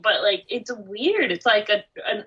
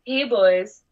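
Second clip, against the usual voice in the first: lightly put-on streetwalker come-on; prostitute voice; 3 dB louder than usual. Host voices the earthworm as a prostitute, lightly put-on prostitute voice. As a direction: play-act a hint of a hooker's call. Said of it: "That's your prostitute voice".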